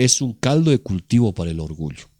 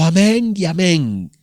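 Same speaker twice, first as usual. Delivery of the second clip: slow, higher drawn-out closing amens; mock prayer landing; 4 semitones higher, slower than usual. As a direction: parody someone winding down a long prayer. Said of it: "cuando ya estamos aterrizando". (amén final paródico, lento y alargado)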